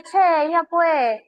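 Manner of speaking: slow, drawn-out mock Argentine accent; a light, playful hint of Argentine Spanish; lazy Argentine drawl, a touch hammed-up. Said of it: "Si te vas a Argentina".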